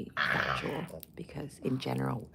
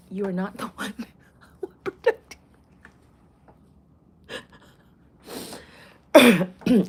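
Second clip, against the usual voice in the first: much higher and louder, a rising shout; emphatic yell; 7 semitones higher, 13 dB louder than usual. Real, not acted. Telling Nikita she is not the one protecting her, yelling. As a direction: blast the last words in disbelief.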